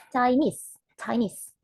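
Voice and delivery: ChiNESE with NESE stressed; stress on second syllable. Shown as a demonstration. Teacher showing the second tone, ChiNESE stressed at the end. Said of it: "stress in the second tone".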